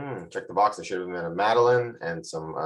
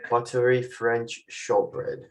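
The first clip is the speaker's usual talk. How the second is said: slow, drawn-out English accent; 2 semitones higher, much slower than usual. Real, not acted. Host describing the cookie in a slow English accent. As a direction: savour each word with a posh English accent. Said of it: "I don't know why I have an English accent".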